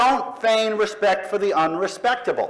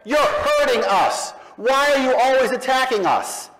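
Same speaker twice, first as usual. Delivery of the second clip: mock whining believers; 7 semitones higher than usual. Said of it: "we get".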